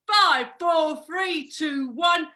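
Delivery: a ringside countdown, called out loud; half-shouted mock referee count. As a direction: count it down like a referee over a downed fighter. Boxing coach acting out a referee count.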